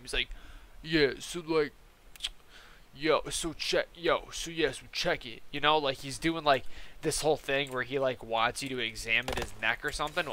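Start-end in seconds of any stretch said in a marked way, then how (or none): 0.8-5.4 halting mock customer voice, restarting as he goes; lightly put-on dude who stalls between phrases; imitated customer. Customer asking the clerk to check it, halting imitation. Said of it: "this dude is talking like this the whole time".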